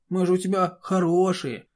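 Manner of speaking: high, syrupy coaxing voice; unctuous wheedling. A narrator's reading. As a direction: sweet-talk her like an innocent darling. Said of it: "елейным голосом попросил скрипач".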